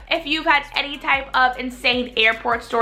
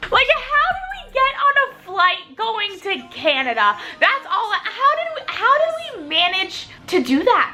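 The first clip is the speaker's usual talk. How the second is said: high-pitched, exasperated disbelief; incredulous outburst; 7 semitones higher than usual. Real, not acted. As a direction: wail it in baffled disbelief. Marvels at being on wrong flight.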